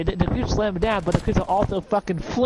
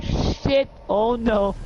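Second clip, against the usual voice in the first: higher alarmed exclamation; startled cry; 6 semitones higher, much slower than usual. Retold or imitated. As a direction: panic as it charges. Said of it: "And you're like".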